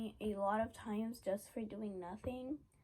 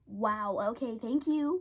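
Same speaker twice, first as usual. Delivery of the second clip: sarcastic thanks; 4 dB louder than usual. Retold or imitated. Sarcastic reply to snitches.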